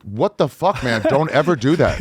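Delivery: high-pitched alarmed outburst from the guide; shocked guide. Retold or imitated. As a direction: guide yelps in disbelief, way up high. Guide scolds him for touching.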